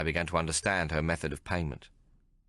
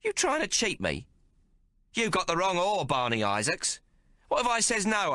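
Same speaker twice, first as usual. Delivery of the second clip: furious Maggie. A narrator's reading. Maggie cursing the tailor for cheating, furious. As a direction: tear into him.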